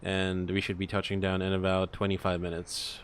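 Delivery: cabin announcement, smooth and measured; captain PA announcement. Acted. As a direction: address the passengers like an airline captain. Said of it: "me do the P A".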